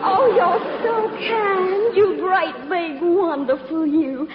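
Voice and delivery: slow, gushing Southern belle swoon with a fake sob. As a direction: melt over him like a damsel in distress. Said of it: "my little old southern routine".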